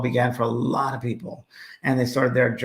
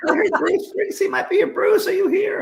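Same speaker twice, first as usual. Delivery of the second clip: high, carrying call to the crowd; playful stage hollering; excited calling out. Retold or imitated. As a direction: shout out looking for the singer. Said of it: "And I was like".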